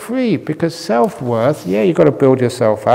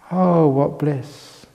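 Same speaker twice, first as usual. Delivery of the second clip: slow, drawn-out sigh of relief; blissful sigh; much slower than usual. Acted. Monk savouring not having to try, slow blissful sigh. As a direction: let the bliss melt out slowly.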